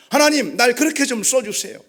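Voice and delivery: high, loud appeal to God; pleading prayer. Acted. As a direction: beg God insistently. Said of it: "기도하고 있는 것입니다".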